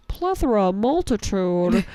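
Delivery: pompous word show-off; savoring fancy words; grandly announced big words. Retold or imitated. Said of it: "all of a sudden I was like".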